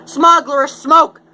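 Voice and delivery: high, loud little-creature voice; Lorax voice. Acted. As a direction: squeak it out like the fussy Lorax. Lorax complains about smog.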